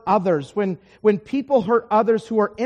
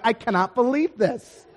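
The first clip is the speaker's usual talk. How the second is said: incredulous, slowing on the complaint; amused disbelief; 2 semitones higher, 4 dB louder, slower than usual. Retold or imitated. Preacher overhearing his seatmate trash him, incredulous. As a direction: marvel in disbelief at being trashed. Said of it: "I'm actually laughing. I'm like".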